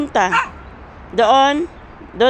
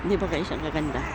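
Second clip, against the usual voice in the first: normal talking voice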